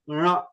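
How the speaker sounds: "Ra" sounded through throat and nose; nasal throat sound. Shown as a demonstration. Teacher showing where to feel it, nasal "Ra" from the throat. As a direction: send "Ra" through the nose as well. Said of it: "also from the nose".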